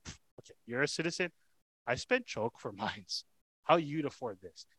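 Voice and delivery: dismissive, mocking scoff at the claim; lightly voiced smug tribune, scoffing; sarcastic. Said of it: "Maybe he said it with that attitude".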